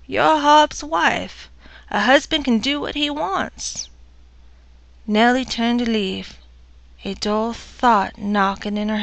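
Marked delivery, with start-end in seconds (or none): 0.1-3.9 cold mother-in-law. Acted. Mother-in-law dismissing Nellie.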